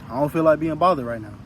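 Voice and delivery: firm, no-nonsense refusal; with authority. Shown as a demonstration. Turning people away when you don't want to be bothered, firm. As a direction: shut it down calmly and firmly. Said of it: "And you say that with authority".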